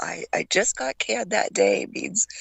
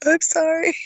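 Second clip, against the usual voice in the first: timid recruit; 9 semitones higher, 4 dB louder than usual. Retold or imitated. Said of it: "I'm like".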